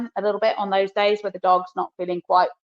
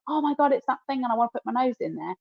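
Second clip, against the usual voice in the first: excited dog; 5 semitones higher, faster than usual. Retold or imitated. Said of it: "they're like".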